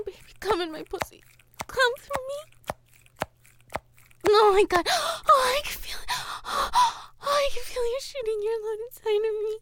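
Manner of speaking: loud, rising cries near climax; ecstatic pleading. Acted. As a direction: beg breathlessly, building to a peak. Lovers' climax scene.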